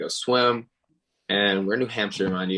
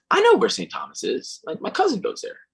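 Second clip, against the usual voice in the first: much higher, excited helper voice; bright eager stranger offering help; mock eager helper. Stranger voiced in retold story.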